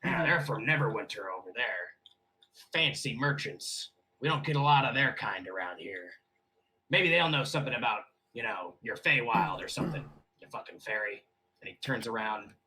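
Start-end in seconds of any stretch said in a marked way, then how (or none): 0.0-11.2 lightly voiced bartender, sinking lower. Bartender pointing out merchants to a customer, lightly voiced. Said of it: "look over your shoulder at the table".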